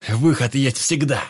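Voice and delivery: loud, slow barked boast; barked bravado. A narrator's reading. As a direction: bark it with silly bravado. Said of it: "гаркнул Вик с нелепой бравадой". (гаркнуть с нелепой бравадой)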